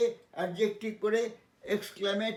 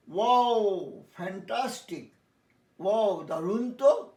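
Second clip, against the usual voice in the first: mock excitement; 3 dB louder, much slower than usual. Shown as a demonstration. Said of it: "আবেগসূচক".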